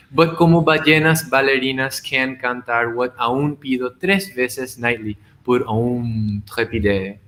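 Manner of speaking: measured reading of a multilingual poem; poetry recitation. Acted. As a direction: recite it line by line, lingering on some phrases.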